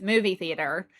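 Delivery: "movie theater" in a plain American accent. Shown as a demonstration. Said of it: "switching back and forth between the two".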